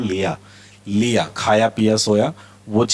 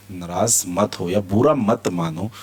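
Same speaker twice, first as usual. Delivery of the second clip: ordinary talk, nothing marked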